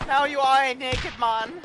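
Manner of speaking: lightly put-on German accent, slow and taunting; mock German accent. Officer confiscating the prisoner's gear, in a mock German accent. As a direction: strip the prisoner's kit piece by piece in a hammed German accent. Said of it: "you really gotta work on your German accent".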